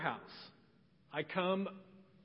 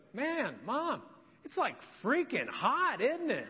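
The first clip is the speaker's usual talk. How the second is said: a bit higher, through a laugh; laughing daughter quote; 4 semitones higher than usual. Retold or imitated. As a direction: chuckle while quoting the daughter. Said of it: "she goes".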